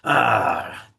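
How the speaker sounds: drawn-out mock "ahh"; imitated surge of irritation. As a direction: act out the body firing into reaction. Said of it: "you feel this stimulus in your body".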